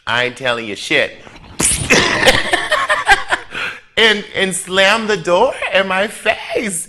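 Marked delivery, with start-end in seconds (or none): 0.1-1.2 curt dismissal. Retold or imitated. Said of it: "This bitch go". 1.2-3.9 high breathy wheeze of laughter; cracking up at the punchline; howling laugh. Real, not acted. Laughing loudly.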